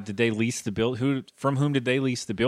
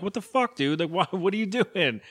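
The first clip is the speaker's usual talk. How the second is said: mock outraged disbelief; 6 semitones higher than usual. Kevin voiced in retold scene.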